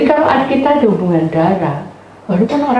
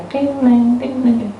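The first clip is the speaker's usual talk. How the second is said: higher-pitched little bell chimes; imitated small bell; 5 semitones higher, slower than usual. Christmas bell inside the heart, light chiming. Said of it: "Lonceng Natal tinggal di dalam hati".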